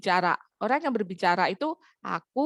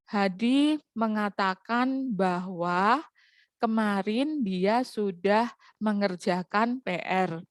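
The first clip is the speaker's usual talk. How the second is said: slow, measured read-out of an example sentence; deliberate, drawn-out reporting tone; flat reading intonation; slower than usual. Shown as a demonstration. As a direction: read it slowly as a plain statement, phrase by phrase. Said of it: "intonasi membacanya cenderung datar".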